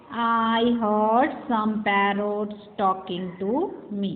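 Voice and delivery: put-on very slow, sing-song reading of a children's poem, each line rising at the end; poem recitation. Teacher reading the jungle poem aloud to her class, slow and sing-song. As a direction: read it out line by line, slowly, for young pupils.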